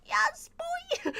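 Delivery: breathless high whispered cheer; excited whisper. Retold or imitated. Fan cheering on her hero, in an excited whisper.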